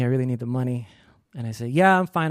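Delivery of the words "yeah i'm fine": higher, put-on reassurance; feigned okay. Anxious worker answering through the door, falsely fine. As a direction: cover up the panic with a lifted voice.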